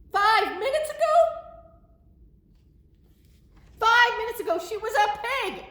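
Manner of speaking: high, loud, alarmed elephant; panicked disbelief. Acted. Gerald learning Piggy just became a frog, alarmed. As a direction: cry it out in comic shock.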